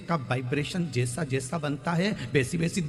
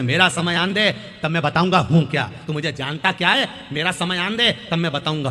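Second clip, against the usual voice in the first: arrogant boast; 3 dB louder than usual. Retold or imitated. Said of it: "अकड़ में कहते थे".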